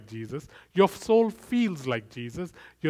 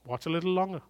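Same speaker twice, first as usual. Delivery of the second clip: tempting soul voice; 2 semitones higher, faster than usual. Retold or imitated. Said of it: "my soul ... now says".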